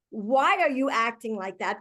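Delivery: mildly accusing question; a why that carries blame; judging. Shown as a demonstration. Coach warning against a judging why, mildly accusing. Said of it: "also still feels like a judgment".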